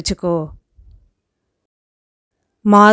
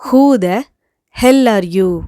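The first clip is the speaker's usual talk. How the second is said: angry; much slower than usual. Shown as a demonstration. Teacher demonstrating an angry English who-the-hell-are-you. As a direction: spit out the who in anger. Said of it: "இது நம்ம கோவத்தோட".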